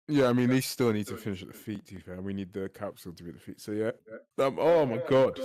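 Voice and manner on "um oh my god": slowed by a hiccup. Real, not acted. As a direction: caught by a hiccup mid-word. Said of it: "You terrible hiccup".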